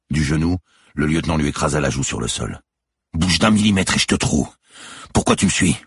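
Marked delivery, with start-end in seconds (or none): 3.1-5.8 loud, raised-pitch interrogation; menacing threat. A narrator's reading. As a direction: threaten the man you have pinned. Policeman threatens pinned man. (menace policière, voix forte)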